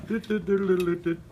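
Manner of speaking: playful imitated trumpet toots; mock trumpet sounds. Shown as a demonstration. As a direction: toot like a little trumpet. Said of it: "I don't mean like".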